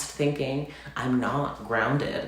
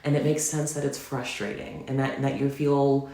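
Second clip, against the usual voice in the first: gentle, soothing self-talk, pitched higher; calming, soothing voice; 5 semitones higher than usual. Retold or imitated. To her hurting self, in a soothing, calming voice. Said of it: "in this calming, soothing voice".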